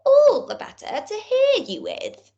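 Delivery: high whispered sly wolf. Acted. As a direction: hiss it out sweetly to trick her. Wolf disguised as grandma.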